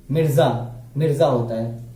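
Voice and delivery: मिर्जा with a buzzing z, mirza; z sound. Shown as a demonstration. Teacher shows students the z sound: मिर्जा with z. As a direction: give the ज in मिर्जा a clear z. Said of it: "और ये है ज".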